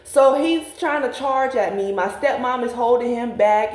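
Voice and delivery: ordinary talk, nothing marked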